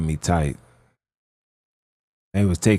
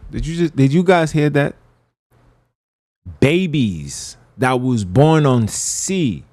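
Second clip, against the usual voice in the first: higher-pitched, real incredulous shock; appalled disbelief; 5 semitones higher than usual. Real, not acted. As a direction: react appalled, pitch raised, breaking off at the end. Appalled reaction to what was heard.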